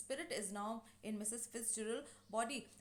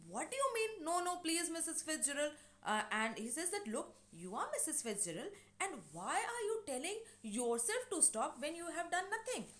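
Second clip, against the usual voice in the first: higher-pitched, puzzled protest; mild mock indignation; 5 semitones higher than usual. George questioning the neighbour over his wife, mildly indignant. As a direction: retell an exasperated demand for explanation.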